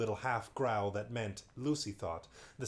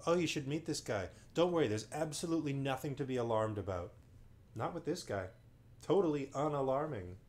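mock reassurance; 3 semitones higher than usual. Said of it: "sideways compliment".

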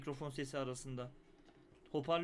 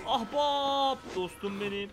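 mock buddy greeting; 6 semitones higher, 10 dB louder, much slower than usual. Echoing game character's greeting.

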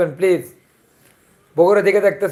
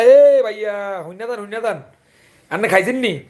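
Chandpur dialect; 2 semitones higher than usual. Shown as a demonstration. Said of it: "আঙ্গদেশি ভাষা এটা".

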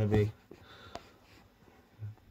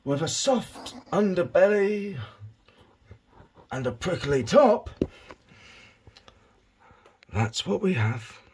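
a hint of wildlife-documentary narration; lightly voiced nature presenter; David Attenborough; 2 semitones higher than usual. Owner describing his hedgehog to camera, light Attenborough impression. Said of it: "I've lost the David Attenborough".

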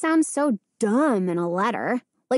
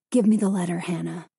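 insisting; 5 semitones lower, faster than usual. A narrator's reading. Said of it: "Danny insisted".

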